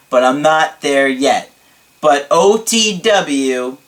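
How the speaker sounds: emphatic, lightly hammed-up gratitude; dramatic client impression. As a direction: testify theatrically, punching key words. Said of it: "here we go again".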